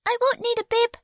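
put-on a tiny prim baby speaking up; baby refusing the bib, squeaky and prim; Baby's voice. A narrator's reading. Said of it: "said Baby".

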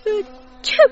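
high, loud "achoo"; acted sneeze. Tilly wakes with a bee on her nose, sneezing.

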